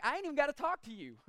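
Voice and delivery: quick, offhand sarcastic dismissal; sarcastic brush-off. Retold or imitated. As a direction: toss it off like the king isn't worth answering. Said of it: "I read it with a bit of sarcasm".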